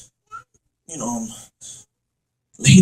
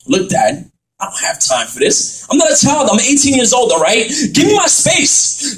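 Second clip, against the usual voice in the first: angry. Acted. Son argues back with father.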